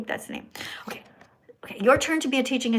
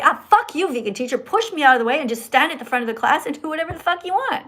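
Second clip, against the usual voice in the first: mock defiant outburst; 4 semitones higher, faster than usual. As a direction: imitate someone mouthing off. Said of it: "what you tried to do is just say".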